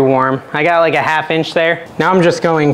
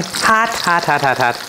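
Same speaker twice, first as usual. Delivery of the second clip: burning mouth; 2 semitones higher, slower than usual. Real, not acted. Bites into a hot tomato.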